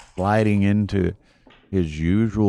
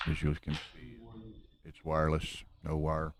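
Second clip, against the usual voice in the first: softer, hushed golf broadcast voice; Jim Nantz golf voice; 12 dB quieter than usual. Real, not acted. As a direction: keep it hushed like golf commentary. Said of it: "my best golf voice here".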